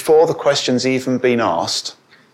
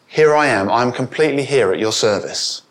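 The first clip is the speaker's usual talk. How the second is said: wholehearted readiness. Acted. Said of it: "It's not that at all. It's".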